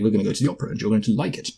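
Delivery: lightly put-on posh British accent; a hint of upper-class British control. Imitating the man in control, in posh British. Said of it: "I don't know why I'm making British".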